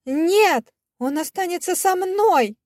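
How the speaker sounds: high, desperate cry; cling to him with a cry; mother refusing to give up her son, crying out high. Acted.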